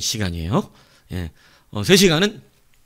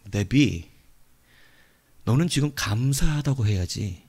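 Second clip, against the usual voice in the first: slow, measured inner voice; gently instruct, as God speaking within; 3 semitones lower, slower than usual. Retold or imitated. God telling an angry traveller to give thanks, slow calm voice. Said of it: "다시 음성이 들리래요".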